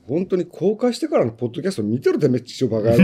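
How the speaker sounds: joking rant with a laugh in it; mock cursing. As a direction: playfully swear at the listeners. Mock rant at podcast listeners.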